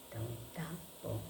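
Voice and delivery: quick breathy whisper, barely there. Shown as a demonstration. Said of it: "Falo muito alto, né?". (sussurro rápido)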